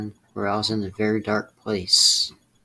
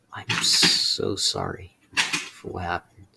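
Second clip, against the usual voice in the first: slow, breathy, near-tears apology; tearful whisper; 2 semitones lower, slower than usual. Real, not acted. Apologizing to Glide for failing freshman year, tearful whispered sorry. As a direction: push the sorry out through a tight throat, slowly.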